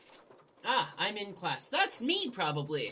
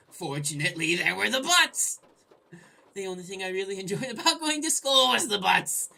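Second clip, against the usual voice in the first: much louder, building to a yell; hammed-up shout; 10 dB louder than usual. Gamer reading a silly line from the game narration.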